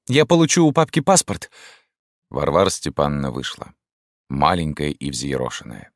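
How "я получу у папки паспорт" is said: высокий громкий крик; выкрикни в отчаянии. A narrator's reading. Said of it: "прокричала Рима". (Рима кричит на мать)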